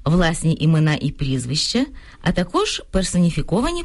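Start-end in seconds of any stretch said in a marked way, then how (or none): 0.0-1.9 power-off whisper on власні імена і прізвища. Real, not acted. Radio lesson listing examples.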